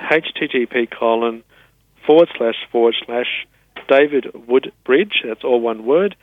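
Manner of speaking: spelling out a web address slowly, with pauses; slow dictation. Real, not acted. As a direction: give it piece by piece for someone writing it down. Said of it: "so I'll say it slowly".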